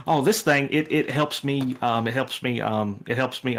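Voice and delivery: put-on halting, stammering nervous kid; mildly nervous, with ums and repeats; nervous nerdy kid. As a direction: stumble and restart like an anxious nerd. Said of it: "very nervous energy".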